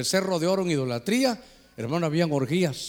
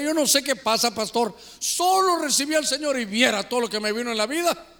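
higher-pitched mock lament; imitated bewildered complaint; 5 semitones higher than usual. New believer complaining to pastor, pleading and higher. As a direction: complain in a raised, put-upon voice.

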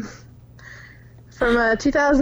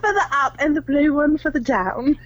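film character quote in put-on British, pitched up; imitated British accent; 4 semitones higher than usual. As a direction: do a mock British movie line, slightly higher.

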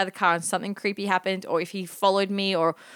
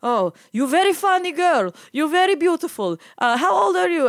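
high, loud, gushing old driver impression; creepy old man; 9 semitones higher, 5 dB louder than usual. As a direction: mimic an accented old flatterer. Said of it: "this creepy old man".

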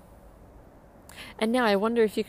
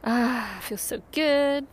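American twist; 2 semitones higher, 3 dB louder, much slower than usual. Shown as a demonstration. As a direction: savour it in a cheesy American accent. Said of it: "I add that American twist on there".

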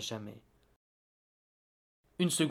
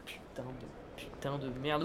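muttered swearing; 8 dB quieter than usual. Acted. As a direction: swear under your breath. Reporter swearing off-air. (juron marmonné)

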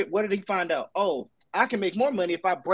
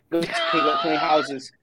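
drawn out shout; 4 semitones lower, much slower than usual. Real, not acted. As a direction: stretch every word out, shouting. Heated argument, repeating his point.

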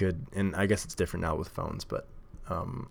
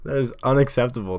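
mock outrage; 8 semitones higher, 6 dB louder than usual. Real, not acted. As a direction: play up the outrage at the squeaky table. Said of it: "squeaky table annoys him".

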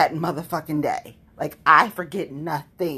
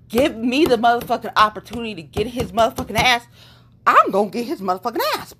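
angry vow; 3 semitones higher, 4 dB louder than usual. Real, not acted. Vows revenge on old enemy.

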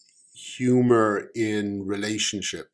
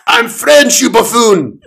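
loud, much higher furious yell; angry shout; 13 semitones higher, 14 dB louder than usual. Acted. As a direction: bellow the insult. Cop shouting.

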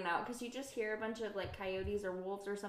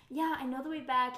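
louder mock-irritated retort; pissed off; 3 semitones higher, 6 dB louder than usual. Guide is asked if he knows the way, mock pissed off. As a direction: imitate someone mildly annoyed at being asked. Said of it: "He's all getting all pissed off".

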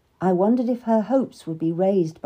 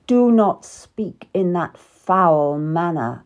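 stern king; 4 dB louder than usual. Acted. King Henry scolding his wife at dinner, stern. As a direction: put her in her place.

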